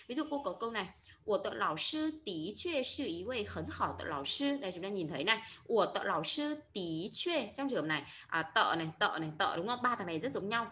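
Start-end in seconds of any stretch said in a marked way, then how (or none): 1.2-4.6 slow model sentence with "tí" rising in "tí chuê"; "tí chuê" reading. Shown as a demonstration. Teacher reading an example to learners, slowly modelling "tí chuê". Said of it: "Chúng ta đọc là tí chuê". 5.7-7.5 very slow model reading, "de" as link, "tí" in "tí chuê"; "de" versus "tí". Shown as a demonstration. Teacher showing learners two readings, slowly modelling "de" and "tí". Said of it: "phải đọc khác nhau".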